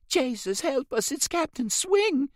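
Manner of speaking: put-on high, startled boy, hushed only in name; a stunned boy blurting it out high; frightened whisper. A narrator's reading. Startled boy to the masked rider, high and frightened. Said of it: "he said in a whisper".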